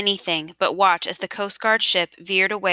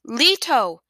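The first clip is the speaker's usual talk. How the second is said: high call with a falling tail; anguished cry; 5 semitones higher, 4 dB louder than usual. A narrator's reading. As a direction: cry out for someone in the waves. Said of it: "she cried again".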